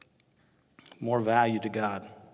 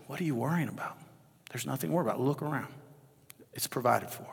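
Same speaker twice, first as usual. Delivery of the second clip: softly, as God comforting a worrier; quiet reassuring voice of God; gentle reassurance; 6 dB quieter, faster than usual. Retold or imitated. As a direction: hush it down, calm and kind. God ministering to the speaker.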